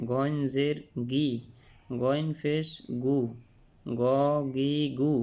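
"গ, গি, গু" said thick from the throat; full-mouthed Arabic ghain on "গ, গি, গু"; thick, heavy ghain. Shown as a demonstration. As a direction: make each "গ, গি, গু" heavy. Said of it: "মোটা করে পড়তে হবে".

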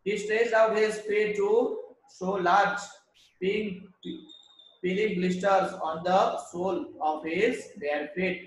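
slow, deliberate English story reading. Acted. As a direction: read each phrase out slowly to the class. Teacher reads story aloud. (धीमी आवाज़ में कहानी पढ़ना)

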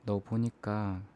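ordinary delivery

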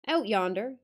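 put-on old northern guide, curt; Yorkshire accent. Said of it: "attempt the accent".

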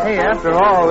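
ordinary talk, nothing marked

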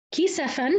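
كسفًا with a short a on the sin; open vowel after the sin. Shown as a demonstration. Teacher reciting Hafs's reading to students, open sin. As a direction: say كسفًا in three syllables, sin opened. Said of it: "انفرد حفص بفتح السين".

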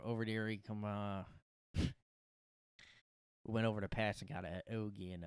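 lightly voiced rough local woman; a hint of a Philly barfly; put-on bar girlfriend.

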